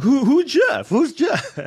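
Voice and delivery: high confused mocking voice with a laugh; mock confused woman. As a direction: squeak the question like her.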